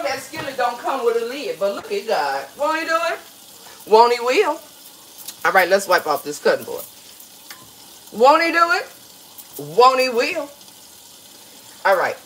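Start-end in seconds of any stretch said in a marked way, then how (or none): 2.6-4.6 praise exclamation. Acted. Churchy praise phrase. 8.1-10.5 praise exclamation. Acted. Churchy praise phrase.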